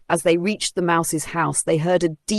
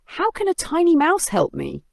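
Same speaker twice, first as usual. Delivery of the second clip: huffed; 12 semitones higher than usual. A narrator's reading. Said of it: "the lion huffed".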